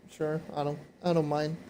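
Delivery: losing voice, a bit hoarse; tired, hoarse throat. Real, not acted. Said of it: "I'm losing my voice".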